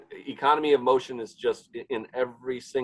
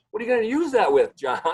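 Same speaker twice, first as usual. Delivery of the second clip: much higher, louder, fast mock-wife question; skeptical wife; 10 semitones higher, 6 dB louder, faster than usual. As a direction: fire it off like a doubtful wife.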